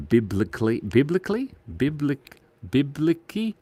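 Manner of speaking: trying out "biblically" with rising uncertainty; puzzled attempts at "biblically"; stumbling pronunciation. Real, not acted. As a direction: sound out "biblically" unsure, testing each try. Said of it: "I don't know how to say that".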